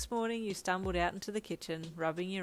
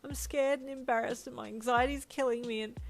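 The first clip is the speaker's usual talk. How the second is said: raised pitch, louder, anxious confession; distressed, higher-pitched character line; anxious outburst; 7 semitones higher, 5 dB louder than usual. A narrator's reading. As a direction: blurt it out in an anxious rush of feeling. Anxious confession in narrated story.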